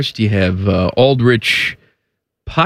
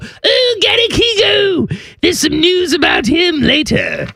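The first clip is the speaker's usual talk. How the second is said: excited shout. Pretend. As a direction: shout it like a hyped announcer. Excited hype about the player.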